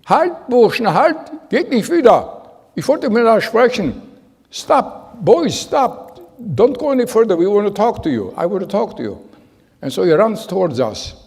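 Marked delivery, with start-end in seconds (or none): 0.1-9.3 high, loud retold yell to stop; yelling in German. Old farmer yelling at fleeing boys to stop. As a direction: call them back sharply, higher and louder. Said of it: "yelling at us".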